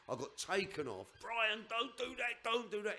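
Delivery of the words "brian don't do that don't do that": a hint of a panicked plea; pleading plea. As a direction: beg him to stop, voice pitched up. Pleading with Brian on the pitch.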